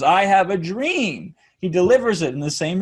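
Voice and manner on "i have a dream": slow drawn-out oratory; Martin Luther King. Retold or imitated. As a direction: deliver it like a civil rights speech. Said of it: "every time Martin Luther King says".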